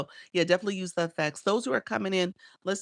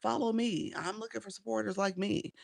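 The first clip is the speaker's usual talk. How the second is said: eager self-promoter; 6 semitones higher than usual. Retold or imitated. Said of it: "those people who come in your live and say".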